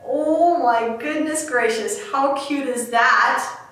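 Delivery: slow, drawn-out gushing delight. Real, not acted. Host shows viewers the tassel tied on, slow delighted gush. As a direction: savor every word of delight.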